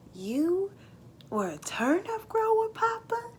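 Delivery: put-on high, wide-eyed child's question; a boy who can't believe it; amazed boy. Jake amazed Papa John grew turnips, high astonished voice.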